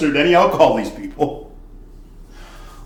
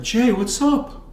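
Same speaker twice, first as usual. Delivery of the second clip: mock frat bro greeting; 11 semitones higher, slower than usual. Frat boys greet the bartender.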